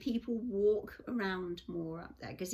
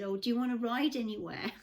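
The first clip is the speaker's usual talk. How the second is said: laughing quote; 3 semitones higher, faster than usual. Retold or imitated. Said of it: "they said".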